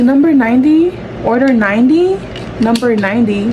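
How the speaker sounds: calling out an order number, stretched; retold counter call. Worker calls an order to customers, calling out. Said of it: "I was, like, calling out number ninety".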